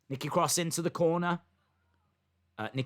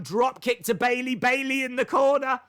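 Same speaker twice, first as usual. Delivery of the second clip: raised pitch, building commentary; excited play-by-play; 6 semitones higher, 4 dB louder than usual. Real, not acted. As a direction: call the action with rising excitement. Live call of fast action.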